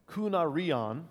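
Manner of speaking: KOO-nah-ree-on, slow and carefully; teaching a Greek word. Shown as a demonstration. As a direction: say "kunarion" syllable by syllable, ending up.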